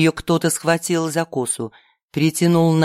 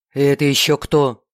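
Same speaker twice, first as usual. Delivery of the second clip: lower, breathless question; panting after running; out of breath; 3 semitones lower than usual. A narrator's reading. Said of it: "спросил он, запыхавшись".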